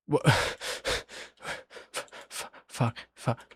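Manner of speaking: very soft, broken-off swearing; muttered cursing. Real, not acted. Storyteller stuck mid-tale, hushed stammered cursing to self. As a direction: falter and curse under your breath.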